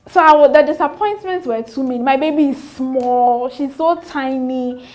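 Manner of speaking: fighting back tears while telling it; choked-up storytelling; voice breaking. Real, not acted. Recalling postpartum disappointments, emotional.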